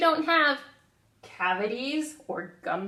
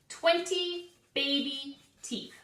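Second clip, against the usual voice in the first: call and response; 4 semitones higher than usual. Shown as a demonstration. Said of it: "Say that with me".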